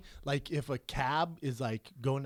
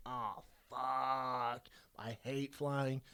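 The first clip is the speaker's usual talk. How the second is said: inward dread; 3 semitones lower, 9 dB quieter, much slower than usual. Retold or imitated. Private dread seeing seat neighbour.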